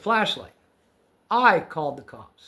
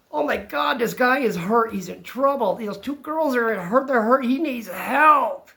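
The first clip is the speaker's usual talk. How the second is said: re-enacted worried thoughts, pitched up; retold alarm; 5 semitones higher than usual. Acts out alarmed thoughts on finding man.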